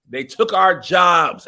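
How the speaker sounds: loud, slow, high joking protest; hammed-up indignant complaint, drawn out; mock outrage. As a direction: play up the grievance loudly for laughs. Joking mock outrage about foreign actors.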